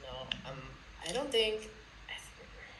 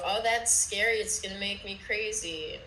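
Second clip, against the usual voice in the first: mock worried; 3 semitones higher, 3 dB louder than usual. Mimicking people nervous about mushrooms, mock worried. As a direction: fret it in a mocking, raised voice.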